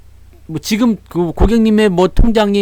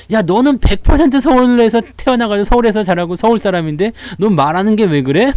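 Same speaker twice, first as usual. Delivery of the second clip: imitated mother; 6 semitones higher than usual. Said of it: "우리 엄마가 그러더라고".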